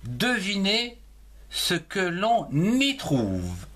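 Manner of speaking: Devinez ce que l'on y trouve dictated slowly; slow dictation. Shown as a demonstration. Teacher dictating the next sentence slowly. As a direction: read it out slowly for writing. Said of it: "Passons au développement".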